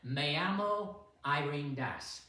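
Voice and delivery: imitating a teacher introducing herself; Spanish teacher. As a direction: present it to a class of beginners. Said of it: "and she'd say".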